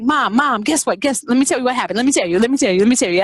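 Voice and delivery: loud, breathless-to-tell child impression; eager tattling. Sisters competing to tell mom what happened, eager. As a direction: tumble over yourself repeating it loudly.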